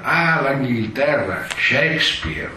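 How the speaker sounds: slow, lofty, trembling declamation; theatrical actor voice. Retold or imitated. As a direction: gaze to the sky and intone the name. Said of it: "con voce impostata da attore". (voce impostata da attore ispirato)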